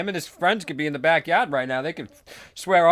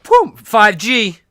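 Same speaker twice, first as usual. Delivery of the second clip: loud triumphant boom; 9 semitones higher, 15 dB louder, much slower than usual. Retold or imitated. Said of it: "I was just like".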